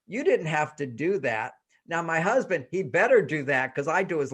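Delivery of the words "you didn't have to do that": grateful tone. Retold or imitated. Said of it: "What I heard is".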